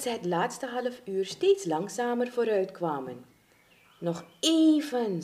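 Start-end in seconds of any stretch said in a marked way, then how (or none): 4.0-5.2 slow, raised, coaxing voice; drawn-out encouragement; encouraging. Acted. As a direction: coax them on, stretching the words. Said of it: "sprak hij Amar bemoedigend toe".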